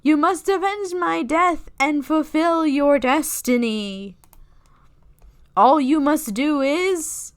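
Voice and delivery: slow, drawn-out spooky ghost voice. Acted. Reading for chat, slow mock ghost voice. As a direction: moan it out like a lazy ghost. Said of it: "Do it with a ghost voice".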